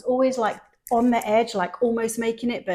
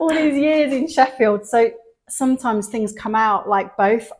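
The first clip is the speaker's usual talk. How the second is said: louder and slower, laughing it off; animated and loud; 3 semitones higher, 5 dB louder, slower than usual. Real, not acted. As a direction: lean in, amused and emphatic. Excited, defensive about her accent.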